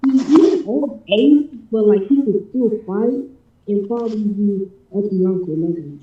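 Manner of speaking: muffled, hard-to-hear voice. Real, not acted. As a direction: sound muffled on the mic. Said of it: "You sound muffled".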